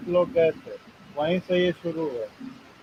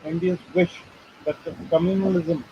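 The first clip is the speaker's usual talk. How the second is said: halting read-aloud from a printed article; much slower than usual. Real, not acted. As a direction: read the text out in short phrases. (लेख पढ़कर सुनाते हुए)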